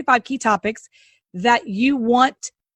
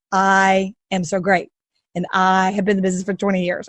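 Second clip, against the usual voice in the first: tag; 4 semitones lower than usual. Retold or imitated. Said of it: "he sends me his bio in first person".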